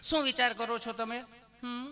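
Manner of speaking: put-on sweet nurse; loving nurse. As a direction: ask with exaggerated tenderness. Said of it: "પ્રેમથી પૂછો છો".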